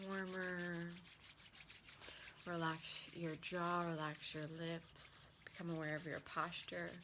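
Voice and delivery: unhurried meditation voice with long pauses; guided relaxation. Acted. Relaxation teacher leading listeners through hand and breath work, guided relaxation. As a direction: guide them gently through each step.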